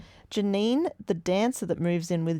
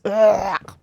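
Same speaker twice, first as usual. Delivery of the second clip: loud "ugh" of disgust; disgusted groan; 9 dB louder than usual. Real, not acted. Podcaster recoiling from sappy Chandler, disgusted groan.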